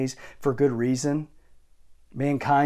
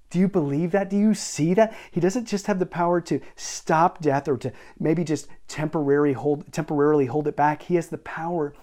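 higher and louder, fired-up challenge; rousing preaching; 3 semitones higher, 4 dB louder than usual. Real, not acted. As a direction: lift the room with it.

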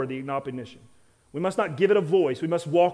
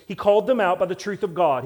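louder, driving repeat of He called them out; louder restatement; 2 semitones higher, 4 dB louder than usual. Shown as a demonstration. Pastor repeats Nehemiah's answer to the congregation, louder. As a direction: press the point home harder. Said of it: "He did not try to debate them".

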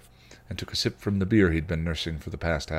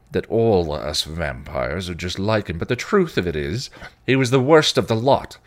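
louder bitter rant against his sire; 3 semitones higher, 6 dB louder than usual. Acted. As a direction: spit the hatred out, building. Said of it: "came out of his rant".

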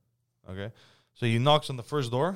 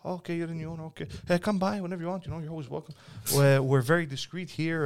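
higher, lightly sultry welcome; flirty tenant; 5 semitones higher than usual.

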